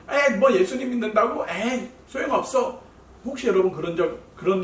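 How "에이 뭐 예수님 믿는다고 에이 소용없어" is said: mocking. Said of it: "여러분을 막 조롱하거나".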